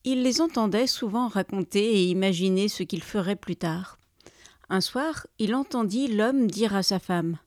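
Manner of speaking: lively storyteller's reading; story narration. A narrator's reading. Storyteller opens a tale of dreaming neighbours, lively narration. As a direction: open the tale with measured, playful pauses.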